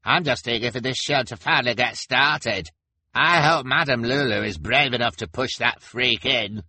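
high, loud impatient onlooker; eager spectator. Acted. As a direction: call it out impatiently from the crowd.

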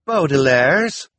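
loud, high, slow questioning rise; shocked question. A narrator's reading. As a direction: gasp the name in disbelief. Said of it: "the reporter from the Daily Punctilio asked".

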